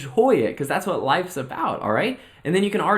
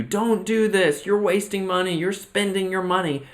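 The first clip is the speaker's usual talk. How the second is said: mock naysayer yelling; 5 semitones higher than usual. Family over the intercom warning you off, mock higher nagging. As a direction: play the worried critics in a mild mock yell. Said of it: "everybody else in your life starts screaming at you".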